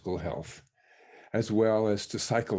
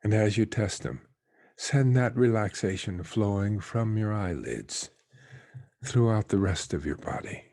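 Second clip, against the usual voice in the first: guided meditation. Real, not acted. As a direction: let each phrase settle downward into stillness. Leads a meditation.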